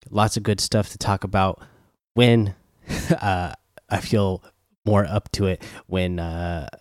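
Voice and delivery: numb mouth, gauze inside. Real, not acted. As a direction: talk around a wad of gauze. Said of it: "my face is numb and I have a big, uh, ball of gauze".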